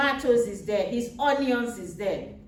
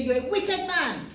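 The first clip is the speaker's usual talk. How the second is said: higher, scolding judge's rebuke; a bribed judge scolding, pitched up; stern judge; 5 semitones higher than usual. Retold or imitated. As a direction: condemn him from the bench. Judge scolding the poor man.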